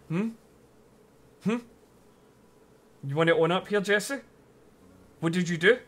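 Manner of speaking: mock jealous. Streamer confronting villager for stealing her man, mock jealous. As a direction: playfully accuse the cheating friend.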